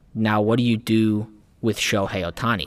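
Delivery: ordinary talk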